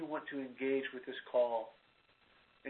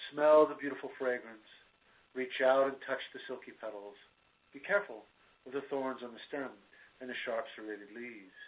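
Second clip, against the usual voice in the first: guided meditation. Acted. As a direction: ease the listener into stillness. Leads a guided visualization.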